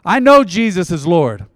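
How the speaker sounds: earnest prayer for the congregation to repeat. Acted. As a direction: lead the prayer line by line.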